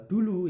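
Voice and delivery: "dulu" high and loud, falling; emphatic demo word. Shown as a demonstration. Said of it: "misal lagi ada kata-kata". (kata "dulu" diucapkan tinggi dan keras)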